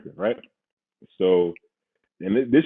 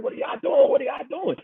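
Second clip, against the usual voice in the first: put-on confused drunk; 3 dB quieter than usual. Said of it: "And remember, I'm drunk".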